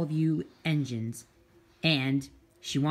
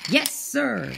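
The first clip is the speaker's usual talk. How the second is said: loud, high "yes sir"; eager reply; 6 semitones higher, 5 dB louder than usual. Acted. Engines answering the conductor's order, eager and loud. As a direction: call it back keenly.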